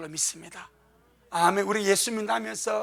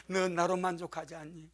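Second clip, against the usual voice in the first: much softer, gentle question; soft voice of the Lord; 4 semitones lower, 9 dB quieter than usual. Retold or imitated. The Lord speaking gently to the believer, hushed. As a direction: ask it quietly, like a tender rebuke. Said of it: "주님께서".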